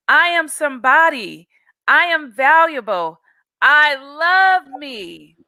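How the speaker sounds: high, proud declarations to the mirror; a girl shouting affirmations to her mirror; joyful shout. A narrator's reading. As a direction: shout each line up high with pride. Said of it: "she shouted".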